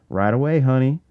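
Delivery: a light Southern twang, lightly voiced; a hint of a smoky Southern barmaid; Southern accent. Bartender answering the boys in a light Southern accent. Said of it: "in a Marlboro-tinged Southern accent".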